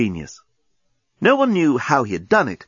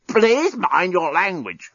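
slow, high strangled croak; croaking robot; 6 semitones higher, slower than usual. A narrator's reading. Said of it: "croaked the despot".

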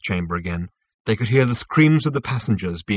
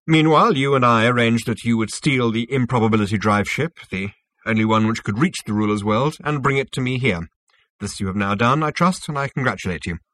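lightly voiced self-assured official; smug Zarniwoop, explaining; 2 semitones higher, 6 dB louder than usual. Zarniwoop explains his synthetic universe to Zaphod, lightly smug. Character dialogue in narration.

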